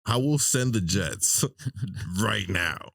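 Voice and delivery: lightly mimicked tough president, slow; Trump quote. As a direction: draw out the mock threat slowly. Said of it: "he was like".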